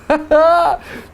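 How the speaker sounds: high-pitched burst of laughter; real laugh at a tongue-tangling word. Real, not acted. Teacher tripping over a hard word for the class, laughing.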